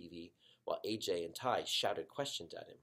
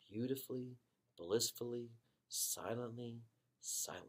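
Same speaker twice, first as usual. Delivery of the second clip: hushed whisper; a soft whisper into the quiet; 7 dB quieter than usual. A narrator's reading. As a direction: breathe the word out softly. Savouring the silence.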